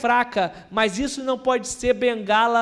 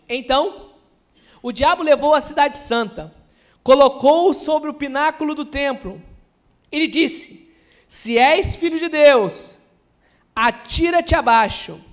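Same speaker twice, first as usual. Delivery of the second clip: scripture reading; 5 dB louder than usual. Acted. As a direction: proclaim the passage to the congregation, phrase by phrase. Lê a passagem em voz alta. (leitura bíblica proclamada, forte e pausada)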